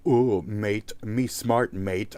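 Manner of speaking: light mocking Australian accent; self-satisfied Aussie caricature, drawn out. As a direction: put on a dim, slow Aussie voice. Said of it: "I don't even think he was fucking Australian".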